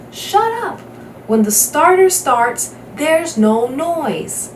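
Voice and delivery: a sharp snarl that drops into a slow, drawn-out warning. A narrator's reading. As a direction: snap at the heckler, then slow right down. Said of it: "Bump turned and snarled".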